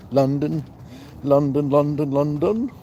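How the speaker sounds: high, loud, singsong London London; lightly chanted greeting; playful sing-song call. Real, not acted. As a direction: call the name out like a chant to a friend. Calling out to viewer London.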